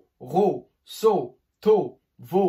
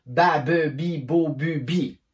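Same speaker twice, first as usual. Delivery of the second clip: measured, separate syllables; articulation drill; slower than usual. Shown as a demonstration. Teacher showing one consonant with every vowel, measured drill. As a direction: lay out each syllable evenly. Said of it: "Ça donne".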